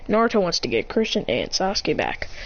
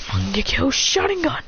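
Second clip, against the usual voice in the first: raised-pitch power call; technique call; 5 semitones higher than usual. Acted. Fighter answering Kiba's attack, calling out his technique. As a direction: announce the move like a battle cry.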